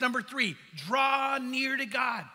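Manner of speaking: slow, drawn-out "draw near to God"; emphatic preaching. Acted. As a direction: call it out as the third point. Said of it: "sermon point".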